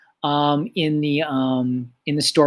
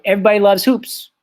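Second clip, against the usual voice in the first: higher, casual exclamation; informal; 5 semitones higher, 4 dB louder than usual. Shown as a demonstration. Teacher showing informal language to class, lively casual delivery. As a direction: toss it out like casual slang. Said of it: "or is it really kind of informal".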